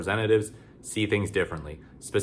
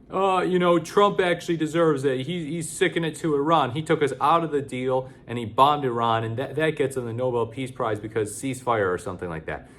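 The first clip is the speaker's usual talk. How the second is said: high, hammed-up dopey voice; mock congressman; 5 semitones higher than usual. Mocking Buddy Carter's nomination reasoning, high silly voice. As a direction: parody the congressman as a clueless partisan. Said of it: "this guy comes along and he's like".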